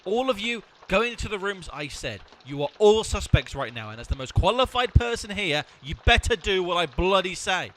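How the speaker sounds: loud, commanding, pompous; bossy shouted orders. Acted. Detective ordering the suspects into rooms, loud and bossy. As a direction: bark the suspects into line.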